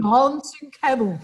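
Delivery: "Dancing Camel" said the American way; "Dancing" with a flat American a; American accent. Shown as a demonstration. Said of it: "Should say it in an American accent".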